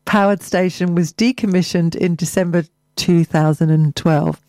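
measured local radio news read; news bulletin delivery; press release read. Acted. Resumes reading press release.

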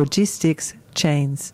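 put-on slow ending in a light French accent. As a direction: finish the quote with a hint of French accent. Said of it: "Why is she doing it in a German accent?".

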